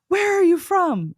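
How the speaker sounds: high, loud mock astonishment; hammed-up high-pitched surprise; imitating amazed strangers. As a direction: ask it like a delighted, astonished stranger. Retelling amazed strangers hearing her accent.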